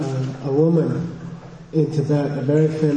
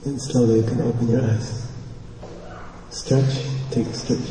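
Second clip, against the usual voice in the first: gentle meditation guide, slightly lower pitch; guided meditation; 3 semitones lower, 7 dB quieter than usual. Real, not acted. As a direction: ease them out of meditation.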